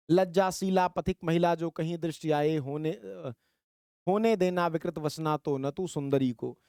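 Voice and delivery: measured verse reading; lightly chanted Hindi verse; poem recitation. Acted. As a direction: read it out as a line of poetry. Reads poem verse aloud.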